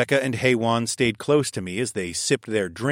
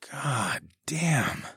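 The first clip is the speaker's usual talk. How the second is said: whispered; 4 semitones higher, 6 dB quieter than usual. A narrator's reading. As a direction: whisper it in awe. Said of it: "I whispered".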